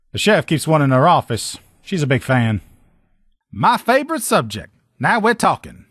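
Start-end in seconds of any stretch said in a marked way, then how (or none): 3.5-5.9 eager delight. Acted. Eager about favorite topic.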